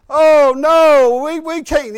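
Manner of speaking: quick embarrassed protest; startled refusal. Retold or imitated.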